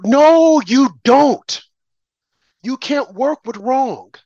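a real burst of indignation; sharp retort. Real, not acted. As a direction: shut the idea down flat out. Heated retort in political rant.

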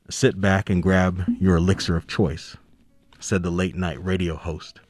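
measured audiobook narration over jazz; story reading. A narrator's reading. Author reads his novel aloud.

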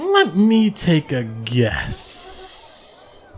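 lightly voiced cheerful server, slow and drawn out; a hint of a chirpy tavern girl; bubbly barkeep Bonnie. Barkeep Bonnie greets the party.

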